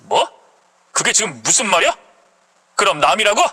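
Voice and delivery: lightly voiced husband in disbelief; indignant, taken-aback husband; stunned husband. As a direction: question her as if you cannot believe it.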